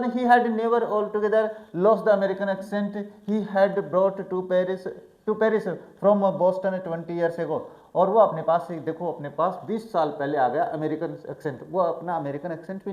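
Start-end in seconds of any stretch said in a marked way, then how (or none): 0.0-7.6 slow, deliberate reading of the text aloud; careful classroom read-aloud; slow English reading. A narrator's reading. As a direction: read each English phrase slowly for the class. Slow read-aloud of novel passage.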